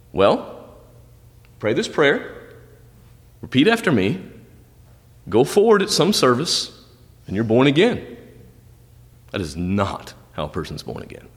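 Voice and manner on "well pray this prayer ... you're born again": mocking the easy answer. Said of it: "how this would be answered today".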